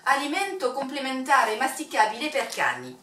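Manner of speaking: Italian accent, pronounced carefully; Italian reading. Shown as a demonstration. Vlogger reading the dog treat label, in an Italian accent. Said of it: "je vais pouvoir vous le faire en italien".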